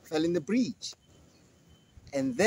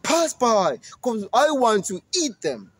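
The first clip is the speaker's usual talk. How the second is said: louder, gruffer monster; 5 semitones higher, 5 dB louder than usual. Acted. Monster lets the goat pass, loud and greedy. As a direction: grant passage greedily. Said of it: "And the monster says".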